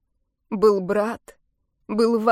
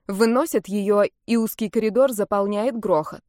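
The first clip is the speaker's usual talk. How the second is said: usual speaking voice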